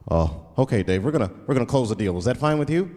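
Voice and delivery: low, formal corporate lawyer on a call; white lawyer voice. Retold or imitated. Comedian imitating his lawyer on a business call, formal and stiff. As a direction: play the stiff white lawyer closing a deal. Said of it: "And they'll be like".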